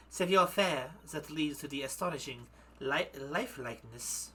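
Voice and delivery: shaky attempt at French slipping into German accent; lightly voiced madame with a German accent. Madame recounts her grandmother's trade, German accent. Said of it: "gonna freaking go back into German again".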